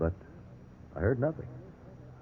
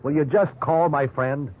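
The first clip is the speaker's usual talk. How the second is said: earnest pleading; 5 semitones higher than usual. Acted. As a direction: spell it out, desperate but steady. Suspect begs a phone call.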